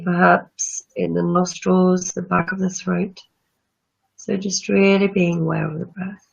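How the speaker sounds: calm breathing-practice guide; guided meditation. Acted. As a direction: ease listeners into calm breathing.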